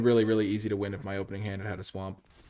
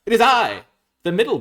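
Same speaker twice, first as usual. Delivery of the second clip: loud storybook goat announcing itself; middle billy goat; 14 semitones higher, 17 dB louder than usual. Acted. Middle goat answering the troll, proud high announcement. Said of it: "said the middle bi".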